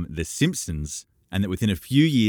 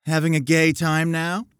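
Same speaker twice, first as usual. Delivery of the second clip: inquiring; 10 semitones higher, 4 dB louder than usual. A narrator's reading. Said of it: "she inquired".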